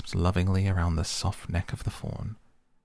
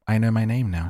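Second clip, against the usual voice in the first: joyful relief; 5 semitones higher, 7 dB louder than usual. A narrator's reading. Alice relieved, finds her name.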